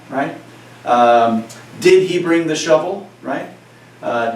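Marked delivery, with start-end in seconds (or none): 1.8-3.1 "did he bring the shovel" asked with lifted pitch; questioning tune. Shown as a demonstration. Teacher gives students an example question, raised questioning tune. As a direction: ask it as a question. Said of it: "pitch in my voice is raising".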